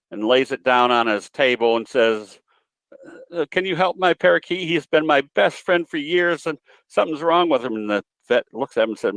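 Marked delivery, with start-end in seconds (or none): 3.3-7.7 a lightly raised voice for the lady, pleading; worried lady. Retold or imitated. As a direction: play the worried parakeet owner, a bit higher. Joke: lady at the vet.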